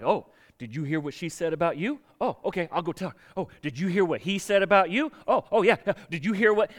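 hammed-up gossip passing tales along; gossiping instigator. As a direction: play an eager go-between stirring trouble. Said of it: "they want the role of instigator".

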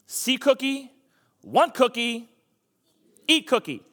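high, punchy monster motto; greedy chant with gaps between each demand; Cookie Monster. Acted. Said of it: "Cookie Monster motto is what?".

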